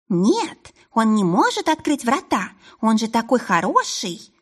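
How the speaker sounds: high squeaky mimicking voice; mock her in a squeaky little voice. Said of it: "передразнила она писклявым голоском".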